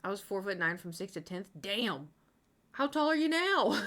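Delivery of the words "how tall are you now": high, amused read-out; laughing question. Real, not acted. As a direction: ask it through a rising laugh. Teasingly reads chat's question, laughing.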